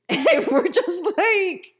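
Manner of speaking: laughing through the words. Real, not acted. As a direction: let the laugh carry the line. Laughing while telling.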